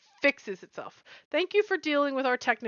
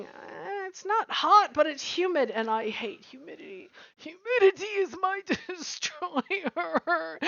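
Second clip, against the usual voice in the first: mock Californian whine; 4 semitones higher than usual. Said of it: "the California here is going".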